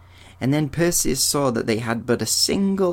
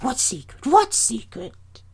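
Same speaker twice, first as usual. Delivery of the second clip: very high crone voices, alarmed then pleading; wheedling old hags; 13 semitones higher than usual. Acted. Grey sisters plead with the young stranger in high hag voices. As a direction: ancient hags begging sweetly for their eye.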